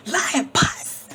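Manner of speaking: Lion Puss proclaimed high and loud; called out name. Acted. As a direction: announce Lion Puss like a summons. Calling out the cat's name.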